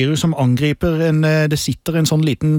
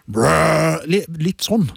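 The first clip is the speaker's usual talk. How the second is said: low roar demo; much slower than usual. Shown as a demonstration. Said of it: "lag en lavfrekvent lyd".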